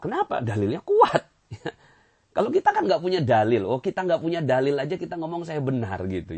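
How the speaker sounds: loud emphatic sermon climax; fervent preaching. Real, not acted. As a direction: preach it with rising fire. Preacher builds to fervour.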